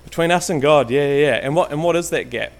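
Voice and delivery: loud, carrying voice across the hall; parade voice. Real, not acted. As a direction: project like on a parade ground. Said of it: "my ex-military parade voice where I can".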